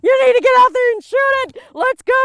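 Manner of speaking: high, loud, fast mock order; mad, hurried. Cameraman ordering her to finish the deer, hurried mock anger. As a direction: bark it like an impatient partner. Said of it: "he was all mad".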